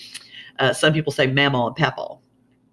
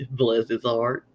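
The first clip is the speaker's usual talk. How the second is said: low, falsely pitying aside; veiled insult; 4 semitones lower, slower than usual. Acted. Gossiping about his keyed car, veiled insult. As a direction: drop it low, pity that means idiot. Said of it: "that is always the second meaning".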